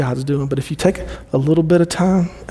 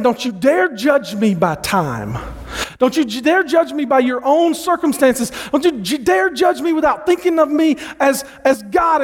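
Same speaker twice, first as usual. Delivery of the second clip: God rebuking; 8 semitones higher than usual. Retold or imitated. God rebuking Habakkuk for judging him, building to a shout. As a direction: build from a firm warning to a thundering rebuke. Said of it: "it's almost like God saying".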